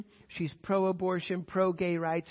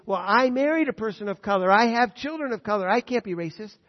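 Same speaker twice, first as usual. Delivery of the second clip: mock defensive white man; 3 semitones higher, 8 dB louder than usual. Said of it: "don't let him say".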